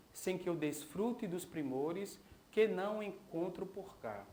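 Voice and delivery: leitura poética cadenciada, verso a verso; recitação de poema. Acted. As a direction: recite the poem in measured lines, pausing between verses. (recitação de poema em voz alta)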